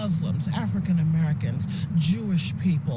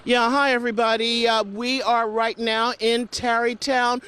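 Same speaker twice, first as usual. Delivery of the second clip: loud; 5 dB louder than usual. Real, not acted. Reporter shouting over snowstorm noise.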